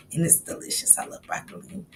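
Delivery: hushed whisper about loved food. Real, not acted. To her chat, whispering her love of broccoli. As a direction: whisper it like a delicious secret. Savoring food talk aside.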